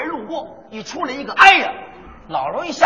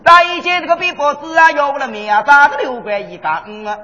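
put-on Shanghai-accented hawking. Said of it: "我给大伙儿学学啊".

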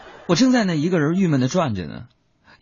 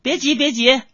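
imitating mom impatient; 9 semitones higher than usual. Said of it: "我说".

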